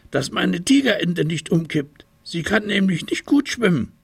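a small tiger calling careful; little tiger warning. A narrator's reading. Little tiger warning bear on the raft, high voice.

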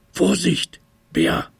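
a small tiger calling careful; little tiger warning. A narrator's reading. Little tiger warning bear on the raft, high voice.

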